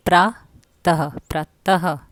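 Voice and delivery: प्रातः said slowly as "प्रा-त-ह", the h clearly heard at the end; slow visarga demo. Shown as a demonstration. Teacher slowly modelling the word for the class, stretching the h. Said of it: "देखो पहला क्या है".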